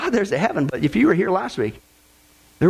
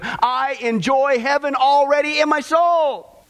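slow, raised exclaim of joy; exultant cry; 6 semitones higher, slower than usual. Retold or imitated. Preacher quoting a deathbed saint, slow exultant call. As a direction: call it out as if heaven is in sight. Voicing a dying preacher's words.

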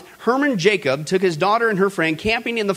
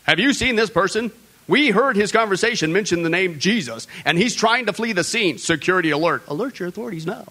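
a pretend robotic street announcement, lightly voiced; mock light post alert. Pastor imagining streetlights reporting a Jesus talker, mock alert voice. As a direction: play a public loudspeaker hunting someone. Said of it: "our light post said something like this".

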